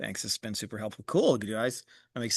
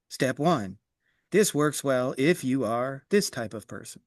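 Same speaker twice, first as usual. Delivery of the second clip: slow flat reading like a robot; slower than usual. Shown as a demonstration. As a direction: read it like a stiff robot. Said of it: "reading it like a robot is like".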